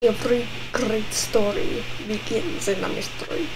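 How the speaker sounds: lightly put-on Russian accent; mock Russian accent. Shown as a demonstration. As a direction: read it like a hammy Russian. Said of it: "a Russian accent".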